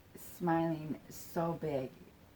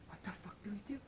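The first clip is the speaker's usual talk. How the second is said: very soft, hushed imitated inner voice; asking themselves; 13 dB quieter, much faster than usual. Retelling the pair's unspoken question, hushed asking themselves. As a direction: say it under your breath, like a private thought. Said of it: "They were asking themselves that".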